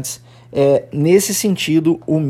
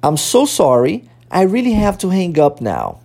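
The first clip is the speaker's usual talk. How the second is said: careful English phrases for learners to repeat; language-teacher repeat-after-me delivery; pronunciation model. Shown as a demonstration. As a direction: model each phrase clearly, then leave a long gap. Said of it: "vamos começar a repetir a pronúncia dessas frases".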